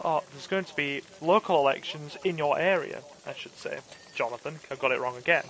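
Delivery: quick polite phone canvasser patter, rushed; brisk cold-caller read. Shown as a demonstration. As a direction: rattle through the canvassing script fast. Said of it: "if I do the phone voice again".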